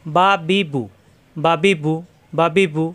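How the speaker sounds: বা বি বু in short, even syllables; no lingering. Shown as a demonstration. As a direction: run বা বি বু without dragging any vowel. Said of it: "কোনো দেরি করা যাবে না". (দেরি না করে বা বি বু)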